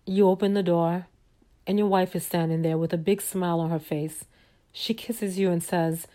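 soft, measured storyteller voice; storytelling narration. A narrator's reading. Narrator leading listeners into a fantasy evening, soft storytelling. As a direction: lay out the scene gently and evenly.

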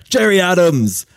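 imitating an old man's high, loud cheer; excited cheer. Old Sudanese man in graveyard greeting the Irishman, excited high shout.

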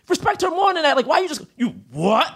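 high-pitched defensive protest. Retold or imitated. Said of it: "I automatically come defensive".

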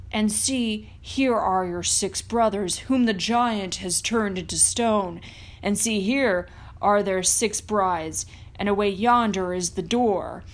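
lightly voiced helpful wolf, guiding; a hint of a wise old wolf showing the way.

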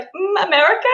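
high, questioning mock guess; tentative guess. British acquaintance guessing where she is from, imitated as tentative. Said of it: "when she guessed where I was from".

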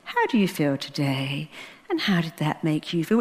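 a quiet monotone psychiatrist impression; mocking psychiatrist. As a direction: parody a dull therapist asking questions. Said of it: "when you do that psychiatrist".

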